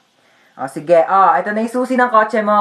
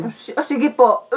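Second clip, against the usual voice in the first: slow, halting, sickly agreement; hesitant put-on weak reply; feigned sickness; slower than usual. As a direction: agree reluctantly while faking illness. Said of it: "nilalagnat ako para di na ako papasukin".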